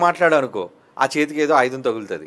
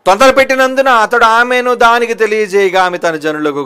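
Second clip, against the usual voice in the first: scripture reading; 7 semitones higher, 8 dB louder than usual. Acted.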